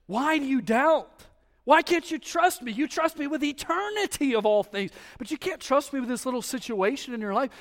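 God asks why you doubt; God's rebuke. Acted. Voicing God rebuking preacher Ethan.

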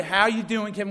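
lightly imitated Southern accent; a touch of Southern US accent. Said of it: "with that Southern accent".

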